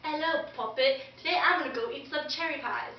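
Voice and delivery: lightly mocked British accent; bad British accent. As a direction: attempt British and muddle it. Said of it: "tries to talk in a British accent".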